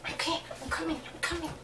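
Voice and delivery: weary sigh and mutter. Retold or imitated. Worn out at security, sighing and muttering softly.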